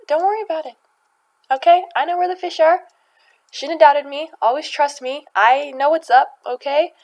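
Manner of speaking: loud, high, confident Jesus voice; booming reassurance. Retold or imitated. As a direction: reassure him with a big grin. Jesus reassures Simon, voiced big.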